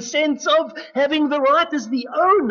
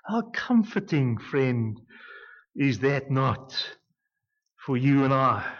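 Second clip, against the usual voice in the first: hushed aside; 10 semitones lower, 5 dB quieter than usual. Real, not acted. Tender aside to the congregation.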